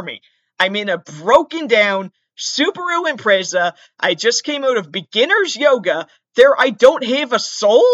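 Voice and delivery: worked-up pleading. Retold or imitated. Pleading his case to police officer.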